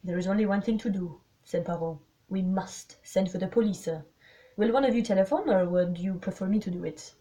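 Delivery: put-on lightly French-accented detective, brisk and firm; Poirot. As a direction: take charge in a measured foreign accent. Voices Poirot.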